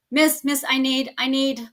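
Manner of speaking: mock whiny pleading students. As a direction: play the needy kid tugging at the teacher.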